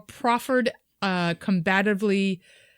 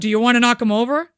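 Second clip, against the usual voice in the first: put-on aggressive teen boy; 2 semitones higher, 7 dB louder, faster than usual. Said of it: "Aggressive boys".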